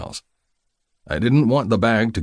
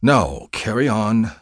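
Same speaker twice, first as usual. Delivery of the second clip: grudging; 3 semitones higher, 3 dB louder, slower than usual. Acted. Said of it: "I said grudgingly".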